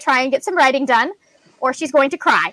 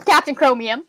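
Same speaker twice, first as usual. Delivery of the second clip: supervillain announcement. Acted. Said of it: "my best supervillain impression".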